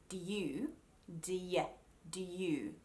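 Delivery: "do you" as d-yoo; "do ya" and "do you" with clean D-Y; technically correct. Shown as a demonstration. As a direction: keep D and Y distinct in "do you". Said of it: "technically it should sound like".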